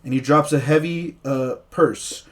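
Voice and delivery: slow, dramatic game master scene setting; story narration. Acted. DM narrating the opening scene to his players, dramatic storyteller voice. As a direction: paint the foggy tavern for the players.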